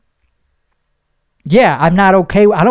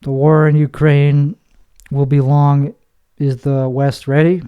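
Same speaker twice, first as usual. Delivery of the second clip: deadpan news read; 2 semitones lower than usual. Shown as a demonstration. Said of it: "read it in my real voice".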